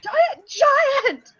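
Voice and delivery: high, laughing cry of warning; alarmed shout. Acted. Ranger shouting the alarm again to the group, high and laughing. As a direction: shriek it twice, half laughing.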